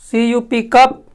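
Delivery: slow letter-by-letter spelling; slow deliberate spelling; spelled out slowly. Shown as a demonstration. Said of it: "उसी तरह से होता है कप".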